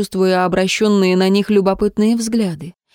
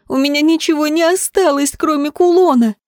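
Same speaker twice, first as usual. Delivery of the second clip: grief; 8 semitones higher than usual. A narrator's reading. Girl shouting at the man who sold her mother's pendant: high anguished cry. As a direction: pour out the loss at him. Grieving girl accuses thief.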